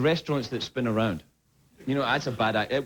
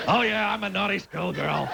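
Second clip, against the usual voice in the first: mock naughty schoolgirl; 3 semitones higher than usual. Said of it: "It's like".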